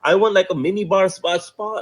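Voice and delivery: half-hearted mock tantrum; mock shouted demands. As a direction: reel off demands like a spoiled guest, without really shouting. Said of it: "she started shouting the minute she's like".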